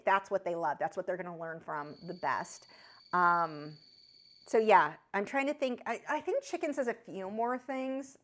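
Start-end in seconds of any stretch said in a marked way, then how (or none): 0.8-2.7 whispering. Real, not acted. Quiet aside.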